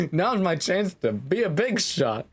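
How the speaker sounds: high, bouncing manic chant; Spamton. Acted. Streamer in glasses playing the deal maker, Spamton impression. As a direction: bounce it high and repeat like a jingle. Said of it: "I am so Spamton".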